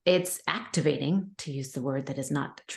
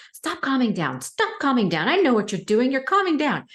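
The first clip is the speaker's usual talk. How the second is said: 1 imitating son; 7 semitones higher, 4 dB louder than usual. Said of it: "And he says".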